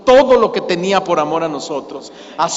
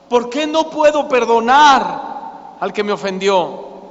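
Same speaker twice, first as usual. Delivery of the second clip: raised, earnest cry to the Lord; pleading prayer; 3 semitones higher than usual. Acted. Believer cries to God, unable to forgive, pleading. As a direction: beg God for help forgiving. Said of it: "le grita a Dios".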